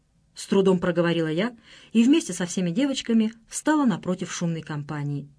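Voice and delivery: usual speaking voice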